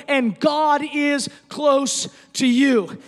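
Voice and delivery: slow, loud, emphatic proclamation; slow preacher's shout; preaching shout. Acted. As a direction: declare it to the whole room. Preaching at full force.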